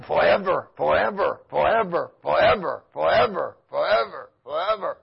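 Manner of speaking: a hint of tormented demons crying out; mock demons wailing. Preacher voicing demons wailing in the fire, low and mournful. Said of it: "hearing the demons shouting".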